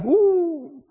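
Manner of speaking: long, high falling "ooh"; mock-daunted, drawn-out high hoot. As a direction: let out a high, sliding "uuh". Mimics someone diving deep for salvation.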